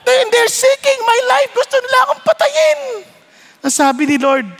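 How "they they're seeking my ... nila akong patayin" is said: desperate plea. Acted. Elijah pleads, rising.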